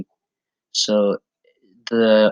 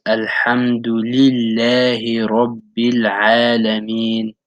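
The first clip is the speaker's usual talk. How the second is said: "Alhamdulillahi Rabbil Alameen" drawn out slowly, "Alameen" with a throaty ayn; slow recitation; slower than usual. Shown as a demonstration. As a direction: model the verse carefully and slowly. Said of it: "circle your lips for the letter Dal".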